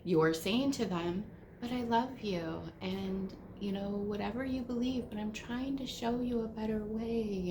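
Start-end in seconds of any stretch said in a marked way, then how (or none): 1.6-7.5 mock sweet preachy. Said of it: "those kind, sweet words".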